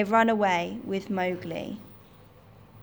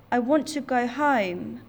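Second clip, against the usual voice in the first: put-on pleading boy; 4 semitones higher, 3 dB louder than usual. Kidnapped boy pleads with monkeys.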